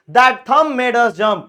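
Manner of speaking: slow example read. Shown as a demonstration. Reads example sentence slowly.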